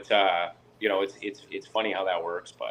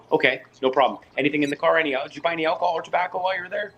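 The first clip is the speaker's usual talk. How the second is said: mock border officer; 6 semitones higher, 4 dB louder, faster than usual.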